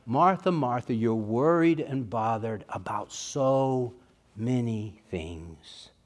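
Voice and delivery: soft and slow, tender rebuke; slow and lovingly soft. Retold or imitated. Jesus tenderly correcting Martha, soft and slow. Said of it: "with such sweetness and such love in his voice".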